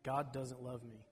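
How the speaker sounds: soft, slow, hushed murmur; lightly voiced inner whisper; whispered lie. A narrator's reading. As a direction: breathe it like a secret lie. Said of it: "whispering to every one".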